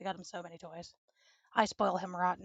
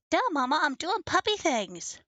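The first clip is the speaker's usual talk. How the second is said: goofy slow puppy voice, pitched up; voicing the puppy; 6 semitones higher, 6 dB louder than usual. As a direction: speak for the dog like a dopey pup.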